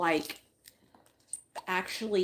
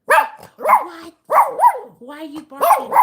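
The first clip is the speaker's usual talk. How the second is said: much higher and louder, demanding; loud startled scold; 11 dB louder, slower than usual. Real, not acted. Owner yelling at her dog for barking, high and loud. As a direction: bark it back at the dog.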